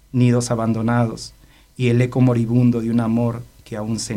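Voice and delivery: measured poetry reading, with pauses after each phrase; poem recitation. Acted. Poet reads his unpublished love poem on radio, poem recitation. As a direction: recite the love poem line by line, letting phrase endings fall away.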